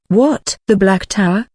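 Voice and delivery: jolted, disbelieving question; surprised. Acted. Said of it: "Ajax was surprised".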